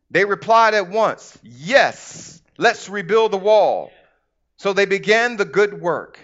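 measured, emphatic scripture reading; deliberate pulpit storytelling. Acted. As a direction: read the Bible story out to a congregation. Reads scripture aloud to congregation.

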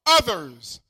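slow, declaimed scripture quote; quoting scripture. Acted. Preacher quoting Jesus to the church, slow and proclaimed. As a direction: proclaim the verse slowly. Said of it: "He says".

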